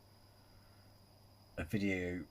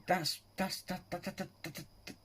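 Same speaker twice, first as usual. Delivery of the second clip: speechless; 8 semitones higher, 6 dB quieter than usual. Real, not acted. Reactor lost for words.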